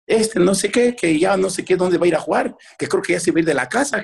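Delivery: mock fretful complaint; complaining mother. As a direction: imitate mum reporting on her son. Mother complains to father about son.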